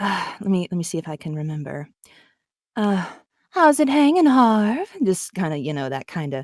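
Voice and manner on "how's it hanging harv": very high, luxurious voice, purring at the end. Giving a sample after being asked, Catwoman voice. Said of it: "can we get a sample?".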